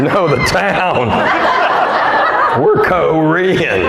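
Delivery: put-on slow, lightly accented Korean mother-in-law; a hint of a Korean mother-in-law's accent. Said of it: "how my mother-in-law talks".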